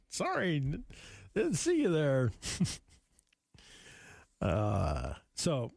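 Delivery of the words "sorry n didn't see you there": high-pitched pretend surprise; playfully flustered, voice up; mock startled apology. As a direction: apologize as if caught off guard. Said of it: "That's how I interpret that".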